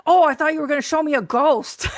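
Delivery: teasing line with a laugh in it; doctor ribbing a spooky patient, laughing; laughing joke. Retold or imitated. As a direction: chuckle through the punchline. Doctor jokes about a ghost.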